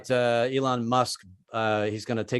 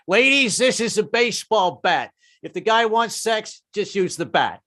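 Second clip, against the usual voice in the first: mock sex-ed teacher; 6 semitones higher than usual. Comic doing a sex-ed teacher addressing ladies, mock instructor voice. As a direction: lecture the ladies like a clueless teacher.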